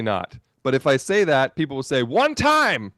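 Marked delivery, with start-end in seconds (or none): 2.0-2.9 high, loud mock-indignant tourist; white guy in Jamaica. Host mimicking commenters who defend redundant recording, indignant white guy voice. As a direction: play an outraged white guy, drawn out and high. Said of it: "I was being a white guy in Jamaica".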